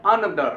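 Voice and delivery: "another" as ə-NUH-dhər, stress on the second syllable; correct pronunciation. Shown as a demonstration. Teacher correcting how the class reads "another". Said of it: "इसको another नहीं पढ़ना है".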